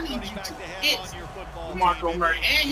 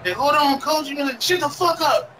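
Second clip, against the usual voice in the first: mock back-talk; 5 semitones higher than usual. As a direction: snap it at the coach, half joking. Acting out talking back to coach.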